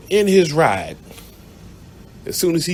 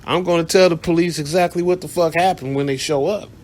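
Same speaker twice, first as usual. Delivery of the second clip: firm refusal; 4 semitones higher than usual. Retold or imitated. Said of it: "I told her to her face".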